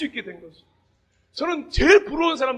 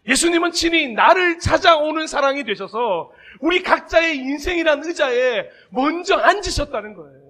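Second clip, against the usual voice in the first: fervent preaching; 2 semitones higher, 4 dB louder than usual. Acted. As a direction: lean in and proclaim each phrase. Preaching climax.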